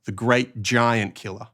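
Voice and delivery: "giant killer" run together as one word, "giant" stressed; no break between "giant" and "killer". Shown as a demonstration. Teacher repeating the example of one who kills giants, giant-killer as one unit. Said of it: "a person who kills giants".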